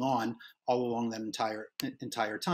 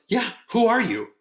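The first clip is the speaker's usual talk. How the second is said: high, slow mocking "Yeah, who are you?"; mocking pile-on; 11 semitones higher, 9 dB louder than usual. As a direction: echo the jab like a teasing friend. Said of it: "turns and goes".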